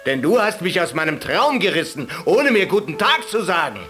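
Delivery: high, loud furious rant; angry shepherd. Acted. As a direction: berate the caliph hotly. Shepherd insults the caliph.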